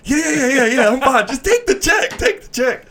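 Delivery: high, loud, nervous rush of yeahs; panicked reassurance. Retold or imitated. Nervous rookie stammering.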